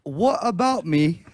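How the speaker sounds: halting attempt at British accent. Shown as a demonstration. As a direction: feel your way into mock British. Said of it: "in a British accent".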